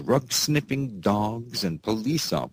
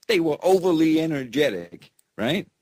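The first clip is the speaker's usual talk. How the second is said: laughing through it; 8 semitones higher, 3 dB louder, faster than usual. Real, not acted. Laughing repeat after stumble.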